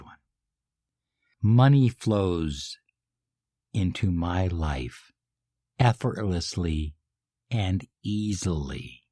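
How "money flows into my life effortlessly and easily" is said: felt affirmation. Shown as a demonstration. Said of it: "Emotionalize it. Feel it. Believe it".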